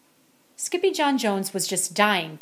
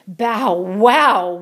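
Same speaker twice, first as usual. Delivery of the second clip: louder woof; 8 dB louder than usual. Acted. Music teacher woofing his praise, loud woof. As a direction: woof it like a dog. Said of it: "woofed Mister Muzzletuff".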